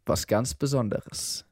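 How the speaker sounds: leise, langsam, geheimnisvoll; geheimnisvoll neckend. Retold or imitated. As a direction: das Geheimnis leise und gedehnt andeuten. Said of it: "Und er so aus Spaß". (Kumpel neckt ihn beim Kuchen, leise und langsam geheimnisvoll)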